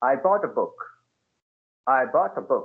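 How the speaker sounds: starts up, falling intonation dropping away on book. Teaching sentence intonation, the speaker demonstrates falling intonation. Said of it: "it should go down like this".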